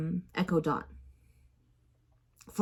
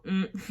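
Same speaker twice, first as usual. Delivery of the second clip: noncommittal hum; 7 dB quieter than usual. Shown as a demonstration. Hearing someone without responding, noncommittal hum. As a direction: acknowledge with a hum, giving no answer. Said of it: "I'm not gonna respond".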